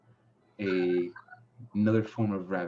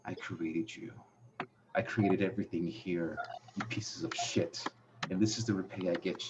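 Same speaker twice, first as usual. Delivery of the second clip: lightly voiced villain, softer; understated menace from a voice in their heads; disembodied villain voice; 5 dB quieter than usual. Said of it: "you hear a voice say".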